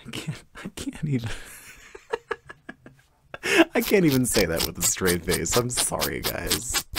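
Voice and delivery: laughing through the words; can't keep a straight face. Real, not acted. Breaks into laughter.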